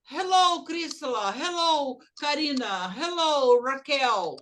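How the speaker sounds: "hello" bem mais agudo e alto, saudação animada; demo greeting. Shown as a demonstration. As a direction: cumprimente com "hello" agudo e forte. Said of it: "Se eu falo assim". ("hello" agudo e mais alto, cumprimento animado)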